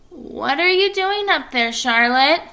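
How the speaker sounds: put-on high young pig voice; curious piglet. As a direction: ask up into the web, curious. Wilbur asks curiously.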